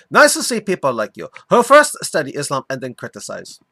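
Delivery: hammed-up Arabic accent; reading lines in a put-on Arabic accent; mock Arabic accent. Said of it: "continue doing my mock Arabic accent for him".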